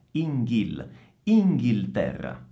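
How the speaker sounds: INGHIL, then the whole INGHILTERRA, L sounded; clear L. Shown as a demonstration. Teacher rebuilds the word for students, clear L in INGHILTERRA. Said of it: "Attenzione al suono della L".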